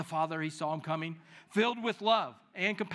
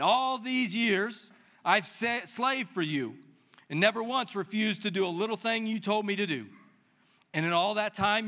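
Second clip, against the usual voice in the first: put-on resentful older son; 3 semitones higher than usual. Older son complaining bitterly to his father. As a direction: voice the wronged brother's grievance. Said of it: "he was angry".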